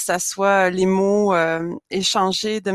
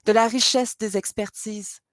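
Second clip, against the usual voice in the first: measured recital, phrase by phrase with pauses; poem reading. Acted. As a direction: read your poem aloud, setting each line apart. Poet reads their own poem aloud.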